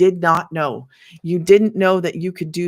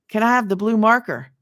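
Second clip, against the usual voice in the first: laughing; 2 semitones higher, 4 dB louder, faster than usual. Real, not acted. Mimicking the marker question.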